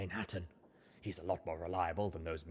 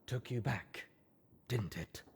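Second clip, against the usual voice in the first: calm mature voice; 4 semitones higher than usual. A narrator's reading. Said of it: "in a calm, mature voice".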